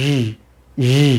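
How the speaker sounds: ই alone as a buzzing consonant; careful, separated consonantal ই; isolated y sound. Shown as a demonstration. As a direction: hold ই separately with friction. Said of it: "ইটাকে আলাদা করে উচ্চারণ করেন".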